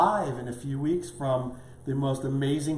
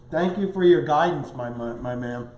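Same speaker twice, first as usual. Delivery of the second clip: mouth full; 4 dB louder than usual. Real, not acted. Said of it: "I'm talking with my mouth full".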